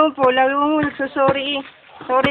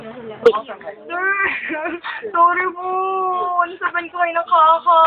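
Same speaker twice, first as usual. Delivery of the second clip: tearful, raised apology with a laugh in it; mock crying; 3 semitones higher, much slower than usual. Student begging the teacher's forgiveness, mock crying. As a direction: wail the apology as a put-on cry. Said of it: "Ako, sinaiyak ako".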